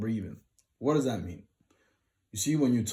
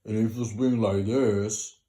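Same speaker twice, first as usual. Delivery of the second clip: too low; 5 dB louder than usual. Shown as a demonstration. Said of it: "you're speaking below your natural voice".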